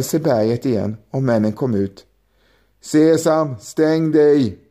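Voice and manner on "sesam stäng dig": a firm order, a little louder. A narrator's reading. Leader ordering the mountain to close, firm command. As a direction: robber leader barking the words to shut the mountain. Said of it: "beordrade ledaren".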